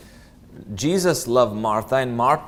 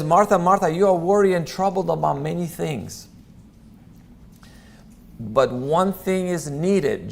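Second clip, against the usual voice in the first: gentle rebuke; 4 semitones higher than usual. Retold or imitated. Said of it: "Jesus very gently talks to her".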